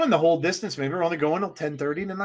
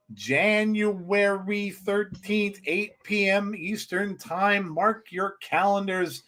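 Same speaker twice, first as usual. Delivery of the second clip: slow, drawn-out announcer read; promo announcer; 3 semitones higher, slower than usual. Real, not acted. Host reading out the show's date to viewers, slow announcer style. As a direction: plug the date slowly, syllable by syllable.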